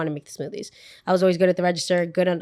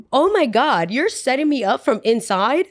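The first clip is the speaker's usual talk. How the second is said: retold disbelief; 5 semitones higher, 3 dB louder than usual. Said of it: "I was like".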